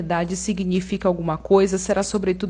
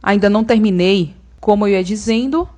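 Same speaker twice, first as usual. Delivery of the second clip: stern and loud; 6 dB louder than usual. Acted. After shouting silence.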